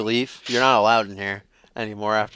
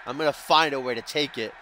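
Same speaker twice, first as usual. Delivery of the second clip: mock Russian accent; 3 semitones higher than usual. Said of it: "should I do that Russian accent?".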